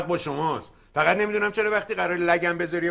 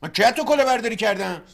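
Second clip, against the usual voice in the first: indignant; 3 semitones higher, 5 dB louder than usual. Acted. Brothers quarrel, accused of fraud.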